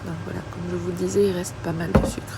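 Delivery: stuffy nose, sniffly speech; blocked nose. Real, not acted. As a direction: speak through a blocked nose. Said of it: "J'ai un peu le nez bouché".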